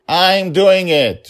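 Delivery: put-on high, slow child's insistent shout. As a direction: stamp it out like a stubborn kid. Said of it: "she was shouting".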